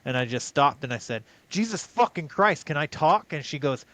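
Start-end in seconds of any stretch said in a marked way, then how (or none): 1.5-3.3 higher-pitched retold exasperation; exasperated outburst. Talked over in an argument, retold exasperated outburst. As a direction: cut in, fed up at being interrupted.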